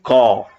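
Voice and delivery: क said as the dotted borrowed q; nukta sound. Shown as a demonstration. Teacher showing a borrowed consonant, nukta sound. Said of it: "का में लगा दिया नुक्ता".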